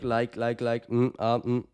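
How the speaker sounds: repetitive, stalling likes and mms; mock inarticulate hesitation; filler-word demo. Shown as a demonstration. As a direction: stumble along on empty fillers. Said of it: "Don't do shit like".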